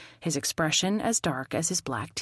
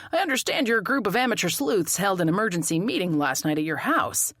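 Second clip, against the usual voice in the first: lightly voiced detective, brisk interrogation; stern detective; 3 semitones higher, faster than usual. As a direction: confront the amateur sleuth, briskly. Stern detective confronting narrator.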